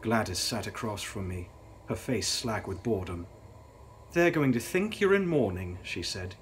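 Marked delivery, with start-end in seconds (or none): 4.1-5.8 mocking, lightly raised sister voice; teasing younger sister. A narrator's reading. Younger sister taunting her sister in the coach, mocking. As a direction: needle her sister with a sneer.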